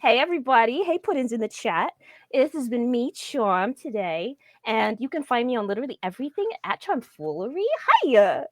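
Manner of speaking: Brooklyn-ish Harley Quinn voice; Harley Quinn greeting the chat. Pretend. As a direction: play it like a cartoon villain's girlfriend. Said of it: "I got a Harley for Zach".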